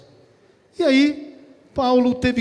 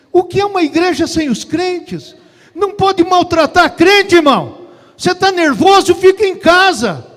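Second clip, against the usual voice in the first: loud, high, scolding preacher; forceful preaching rebuke; 8 semitones higher, 10 dB louder than usual. Real, not acted. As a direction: raise the voice to reprimand the congregation. Pastor repreende os dirigentes. (bronca de pregador, alta e aguda)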